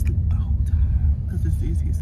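whispering. Real, not acted. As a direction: hush it, don't wake him. Baby asleep in the car.

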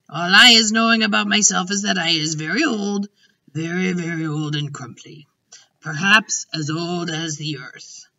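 a hint of an ancient giant, musing; lightly voiced old giant. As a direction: lightly play a giant pondering his age.

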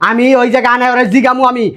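heated, insistent commands; angry orders. Acted. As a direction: rant that climbs steadily in pitch. Quarrel, ordering son-in-law be phoned.

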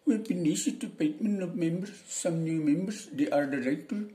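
put-on high Indian English accent, a bit slow on "some new members". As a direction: imitate an Indian speaker of English. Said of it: "Kan begitu orang India".

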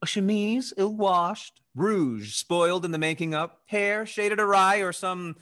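mocking tease. Teasing mistress, mocking.

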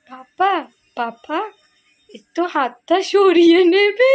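slow, whiny plea breaking into laughter; laughing half-cry of a sick little girl; imitating sick daughter. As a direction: mimic a poorly child asking papa to move his hand. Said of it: "বাবাকে এরকম বলছে".

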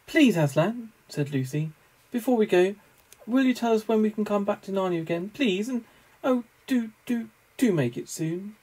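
put-on a child begging Aslan; pleading young girl.

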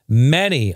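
MANY drawn out, pitch swooping on it; emphatic all caps. Acted. Podcaster reading a fan's message aloud, stress on MANY. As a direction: punch MANY as if typed in capitals. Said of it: "all caps".

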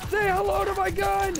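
high loud hammed-up taunt; hammy movie villain. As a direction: ham up a movie villain line. Hammy battle cry in game.

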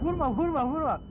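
high, loud frantic shouting. Real, not acted. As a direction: yell it in panic. Frantic plea not to shoot.

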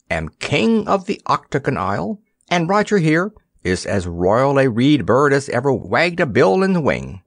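put-on high, cheerful old sailor coaxing a boy; lightly voiced jovial cook; jolly ship's cook. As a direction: humour the boy like a kindly cook.

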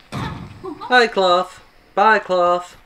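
not-quite-Russian character voice; mock Russian accent.

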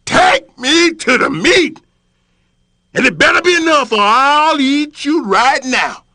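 high, wheedling small-creature voice; sweet-talking trickster bargaining for his life; sly little critter voice. Acted. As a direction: coax the lion with big promises.

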